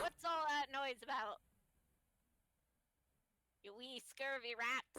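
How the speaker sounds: loud scolding pirate voice; pirate captain. Acted. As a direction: berate the crew like a pirate captain. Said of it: "I wanna hear the pirate voice".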